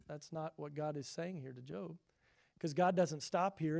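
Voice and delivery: ordinary delivery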